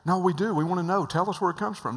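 high, loud insistent pleading; eager begging. Retold or imitated. Executives begging the preacher for his source, high loud insistence. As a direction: push like executives who must know.

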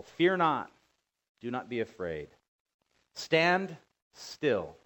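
forceful reading of Moses' command; preaching scripture. Acted. Preacher reading Moses' words to the people with force. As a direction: proclaim it like Moses to the crowd. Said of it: "notice what Moses said to the people".

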